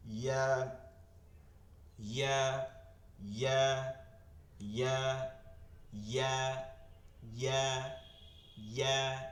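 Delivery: "ইয়া" with a firmly pressed y; repeated drill of "ইয়া" with a tight y. Shown as a demonstration. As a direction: press the y of "ইয়া", then open to a. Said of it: "এরপর শক্ত হবে".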